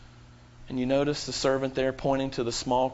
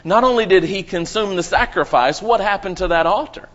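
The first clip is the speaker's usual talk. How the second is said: loud, rising preacher's build; fiery sermon climax, louder and higher; preaching fervor; 4 semitones higher, 7 dB louder than usual. Real, not acted. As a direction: drive it home to the congregation, higher and louder.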